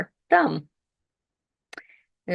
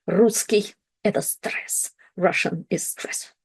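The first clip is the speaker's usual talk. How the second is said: hushed, breathy joke line, almost unvoiced; a teasing whispered aside; mock whisper. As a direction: whisper it like a confession of dread. Joke whispered about Russian.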